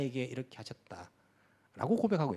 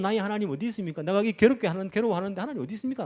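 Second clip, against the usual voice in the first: anguished cry; 5 semitones higher, 4 dB louder than usual. Retold or imitated. Despairing believer's cry retold.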